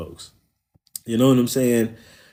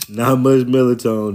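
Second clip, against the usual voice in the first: ordinary talk, nothing marked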